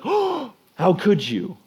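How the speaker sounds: high, whiny how could you; mock wounded whine. Jesus mock whining at Judas in a sermon retelling. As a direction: ham up a hurt, betrayed friend. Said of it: "Jesus is like".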